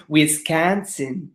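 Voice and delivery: botched attempt at a Wisconsin accent; bad Wisconsin accent. Shown as a demonstration. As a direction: try a Wisconsin accent and miss. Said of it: "oh, that was really bad".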